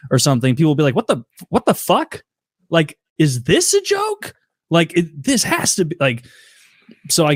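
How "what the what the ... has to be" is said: high, baffled what-the-hell; pitched-up mock disbelief; incredulous disbelief. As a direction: play stunned confusion at a joke that isn't one. People reacting to unironic speech.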